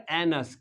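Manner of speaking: "एनस" with a schwa in the second syllable; pronunciation demo. Shown as a demonstration. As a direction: model "एनस" as two joined syllables, AN-us. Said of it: "तो हो जाएगा".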